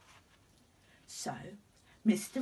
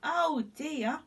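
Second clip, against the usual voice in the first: much higher, dismayed; alarmed; 9 semitones higher, 4 dB louder than usual. Acted. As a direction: fret aloud at the mirror. Alarmed at sunburn in mirror.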